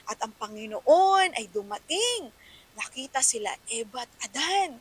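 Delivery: lightly dramatized Bible-story narration; understated story-reading voice, fading at the end; storytelling voice. Shown as a demonstration. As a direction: read it like a story to children. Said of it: "yung mga actions mo, big din".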